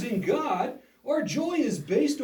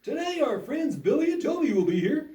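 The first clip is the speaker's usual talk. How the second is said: earnest upbeat school lecture. Acted. Puppet show host intro.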